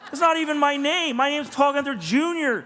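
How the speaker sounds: laughing in disbelief at the wrong name on the award. Retold or imitated. Reading the award plaque to the office, laughing high and loud. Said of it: "And I'm like".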